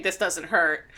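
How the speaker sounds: low, soft strained voice; mock groan. Schwartz collapsed in the dirt, low weak mock voice. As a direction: play a beaten man face down in dirt. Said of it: "he sees him face down into dirt saying".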